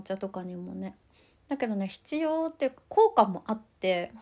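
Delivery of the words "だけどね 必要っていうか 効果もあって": talking around a candy in the mouth; sucking candy. Real, not acted. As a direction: speak with a sweet in your mouth. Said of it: "ごめんなさい、飴舐めながら".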